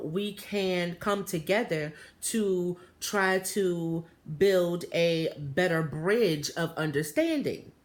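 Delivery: put-on slow, deliberate accented English; formal, measured speech with a slight foreign accent; imitated foreign accent. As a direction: imitate careful proper English with a light accent. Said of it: "he had the thickest accent".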